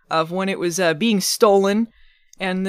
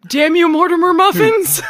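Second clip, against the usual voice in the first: cursing witch, raised pitch; hammy curse shout; 11 semitones higher, 8 dB louder than usual. Pretend. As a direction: shout the curse high and loud. Witch cursing ancestor, acted.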